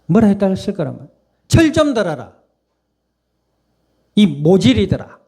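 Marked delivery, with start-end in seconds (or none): 1.5-5.2 a half-joking scold, pitched higher; mock scolding. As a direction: tease them like a fed-up teacher. 꾸짖는 상상 대사. (반쯤 장난스럽게 꾸짖는 목소리)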